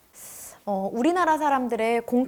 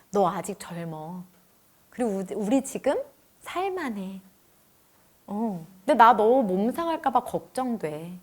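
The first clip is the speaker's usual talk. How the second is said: tender reassurance; 3 semitones lower, 6 dB quieter than usual. Retold or imitated. Husband gently reassuring his overworked wife, soft and low. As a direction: gently comfort her. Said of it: "이 얘기를 하는데".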